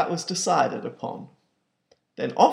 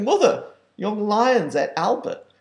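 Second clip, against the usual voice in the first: worried father; 7 semitones higher, 5 dB louder than usual. Acted. Pa tells Mother of the mishap.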